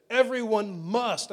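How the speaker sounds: Everyone must, slow, with must leaned on; weighty scripture stress on must. Shown as a demonstration. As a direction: land hard on must. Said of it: "did you hear the word must".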